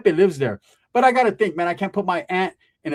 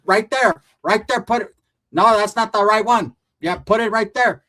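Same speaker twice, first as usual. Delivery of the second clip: excited directions; 6 semitones higher, 6 dB louder than usual. Retold or imitated. Aunt's excited directions retold.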